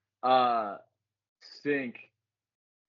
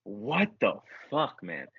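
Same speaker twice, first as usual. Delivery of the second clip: frustrated thought; 3 dB louder, much slower than usual. Retold or imitated. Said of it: "thinking to myself".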